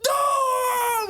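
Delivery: very high, loud shout of disbelief; mock outraged shout; disbelieving no. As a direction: yell it at your buddy. Friends react to Peyton mistake.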